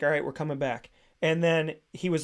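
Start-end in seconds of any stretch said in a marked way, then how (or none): 0.0-0.9 mild imitation of a reserved host; understated, casual off-air murmur; calm, reserved. Imitating radio host talking off the air, calm and reserved. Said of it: "really calm, quiet, reserved".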